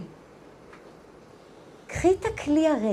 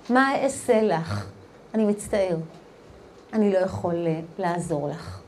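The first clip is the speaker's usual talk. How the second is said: low, soft, apologetic helplessness; Elisha; 6 semitones lower, 4 dB quieter than usual. Retold or imitated. The prophet answers the widow, acted quiet apology. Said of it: "אלישע כמו אלישע".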